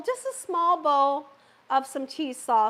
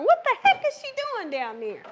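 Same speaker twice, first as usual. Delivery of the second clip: quoted viewer; 9 semitones higher than usual. Retold or imitated. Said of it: "Some of you may be wondering".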